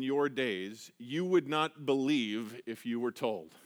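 slow, deliberate reading of God's words; scripture reading. Acted. Preacher reading God's reply to the congregation, slow and solemn. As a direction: read the Lord's answer slowly and firmly. Reads the Lord's response.

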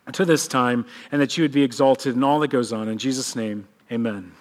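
earnest pastor's prayer voice. Acted. Pastor praying for the congregation, earnest prayer. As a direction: pray over the church gathered.

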